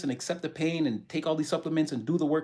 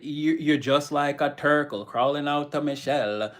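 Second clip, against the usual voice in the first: put-on Jamaican accent; slower than usual. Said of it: "the Jamaican guy".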